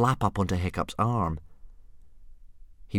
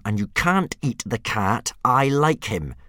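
through gritted teeth; 4 semitones higher, 5 dB louder, slower than usual. Acted. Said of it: "from between gritted teeth".

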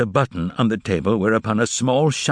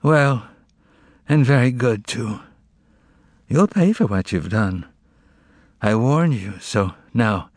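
sleepy mumble. Acted. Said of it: "In a sleepy voice, free of malice, he mumbled".

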